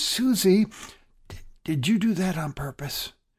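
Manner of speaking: soft whisper, stumbling on the word "did". Retelling a story of a boy at a bus stop: imitating a whisper. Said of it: "walks over to Susie and whispers".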